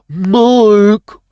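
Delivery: warm up the impression; first try at the voice. Speaker tries out a voice calling Mark. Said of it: "get the voice just right".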